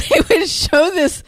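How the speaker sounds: laughing through the words; giggling as she repeats it. Real, not acted. Laughing while telling husband's story.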